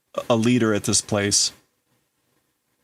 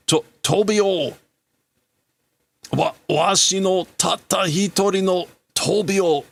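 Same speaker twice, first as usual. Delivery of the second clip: lightly voiced father, high and slowed at the start; a hint of a father in tears over his only son; grieving father; 9 semitones higher than usual. Father mourning his only son, high, mild anguish.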